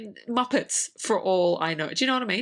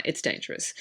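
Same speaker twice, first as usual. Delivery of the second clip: unvoiced, breathy warning; a guide's hushed, urgent whisper; 5 dB quieter than usual. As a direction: whisper the danger to her. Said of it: "And he goes".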